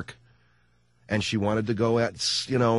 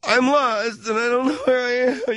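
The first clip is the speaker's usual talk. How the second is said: high, panicky wife voice; wife's voice; 4 dB louder than usual. Retold or imitated. Husband imitating his lost wife on the phone, high panicky voice. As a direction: squeak it out like a lost, frantic wife. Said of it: "I said".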